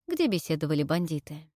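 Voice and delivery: usual speaking voice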